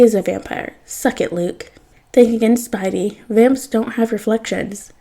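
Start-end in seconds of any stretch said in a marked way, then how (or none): 2.1-4.9 put-on British accent. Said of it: "says a British voice".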